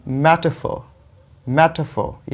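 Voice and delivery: मेटाफोर as MET-uh-fo, stressed at the start; correct, silent R. Shown as a demonstration. Teacher gives the correct reading, मेटाफोर as MET-uh-fo. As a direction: drop the r and punch MET in मेटाफोर. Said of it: "कैसे आप pronounce करेंगे".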